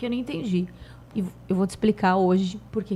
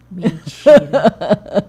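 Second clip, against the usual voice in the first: incredulous laugh; 12 dB louder, much slower than usual. Retold or imitated. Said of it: "Aí eu".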